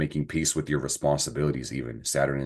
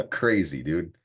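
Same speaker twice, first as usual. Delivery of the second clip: laughing; slower than usual. Real, not acted. Laughing at own miscount.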